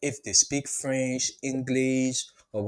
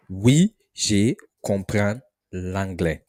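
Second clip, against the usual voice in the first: slow model answer; 2 semitones lower, slower than usual. Shown as a demonstration. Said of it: "the response you should give".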